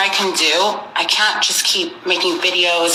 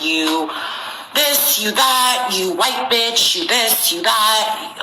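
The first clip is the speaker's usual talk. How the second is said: mock insulting commenter; 4 semitones higher, much slower than usual. Mimics commenters hurling insults.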